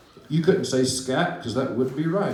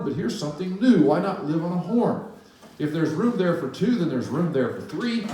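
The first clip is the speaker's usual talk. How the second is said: chirpy bird; 2 semitones higher than usual. Acted. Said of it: "and he chirped".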